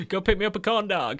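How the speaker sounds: light mock sitcom voice; quoting a TV kid. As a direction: toss off the demand like a sitcom kid. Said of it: "Drake and Josh used to always go".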